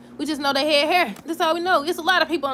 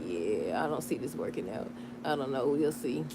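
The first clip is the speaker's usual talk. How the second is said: doubtful; 9 semitones lower, 8 dB quieter than usual. Retold or imitated. Doubting the couple's future.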